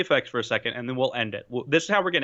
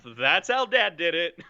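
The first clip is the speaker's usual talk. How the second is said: slow, drawn-out sign-off with a laugh; catchphrase sign-off; 3 semitones higher than usual. Acted. Host signing off the show, slow amused catchphrase.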